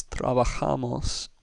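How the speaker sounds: trabajamos with the third syllable ja stressed. Shown as a demonstration. Teacher showing the correct Spanish stress, stress on JA. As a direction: lean on "ja" in trabajamos. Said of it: "with the ja syllable getting the emphasis".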